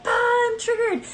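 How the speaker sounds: high, slow huffy whine; mock triggered. Reader mocking an upset Pisces, high huffy whine. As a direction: play it as a dramatic tantrum. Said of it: "And you're like".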